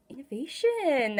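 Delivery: gasped, slow reveal of the card name; delighted little gasp before the word; gasp of surprise. Real, not acted. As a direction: catch your breath, then say it slowly. Gasps on turning the card.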